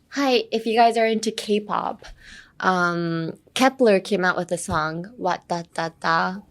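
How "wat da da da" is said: The song title as even beats rising at the end; song's intonation. Shown as a demonstration. Teacher citing a K-pop song, rhythmic title phrase. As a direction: tap out the title like a hook. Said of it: "has the same intonation".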